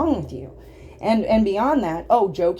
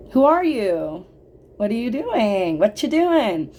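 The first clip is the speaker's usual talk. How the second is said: retold confrontation; 5 semitones higher, 5 dB louder, slower than usual.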